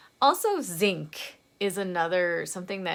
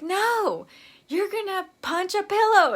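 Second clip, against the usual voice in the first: higher, louder "No" then a bossy order; firm no; 11 semitones higher, 6 dB louder than usual. Acted. Telling herself off when the landlord yells, loud and high. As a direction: overrule yourself loudly. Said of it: "you're like".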